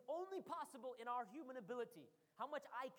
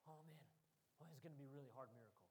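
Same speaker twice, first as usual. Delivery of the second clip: much softer, lower, rushed grumble; mock mumbled despair; 8 semitones lower, 10 dB quieter, faster than usual. Doubting listener grumbles about the miracle, soft and fast. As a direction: mutter it fast and defeated. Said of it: "to understand".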